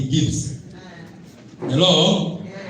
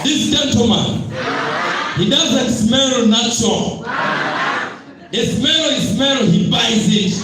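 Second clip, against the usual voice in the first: hype shout; 5 semitones higher than usual. Acted. Hyping guest to crowd.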